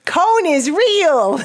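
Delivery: high, drawn-out playful declaration; mock proclamation. Friend teasing the host over a surname, mock proclamation.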